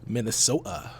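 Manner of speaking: rough attempt at a Minnesota accent. Podcast host copying a TV show's pronunciation, mock Minnesota accent. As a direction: lightly copy a Minnesota accent. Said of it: "is that your Minnesota accent?".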